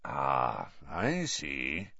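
Moody softly needling Snape. A narrator's reading. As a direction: say it softly, letting it hang. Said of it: "said Moody softly".

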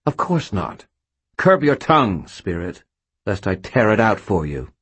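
high sharp angry rebuke; snapping ghost. Acted. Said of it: "snapped the gray ghost".

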